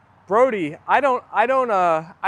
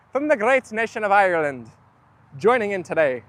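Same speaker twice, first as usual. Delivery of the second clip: attempted Irish lilt, not very convincing; bad Irish accent. Streamer greeting Irish viewer Mick in a bad Irish accent. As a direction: put on a rough Irish accent. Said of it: "I thought you were Irish for a second".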